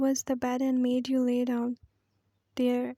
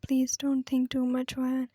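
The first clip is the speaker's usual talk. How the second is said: heavy breathing. Acted. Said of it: "while taking heavy breath".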